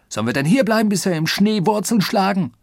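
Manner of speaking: loud, high indignant bellow; brüllen. A narrator's reading. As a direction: roar the question at them in outrage. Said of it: "brüllte Oberst Proctor". (empört brüllen)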